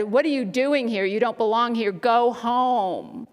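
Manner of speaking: half-hearted yell to drive someone off; lightly imitating an angry young man yelling; retold yelling. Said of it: "He started yelling and said".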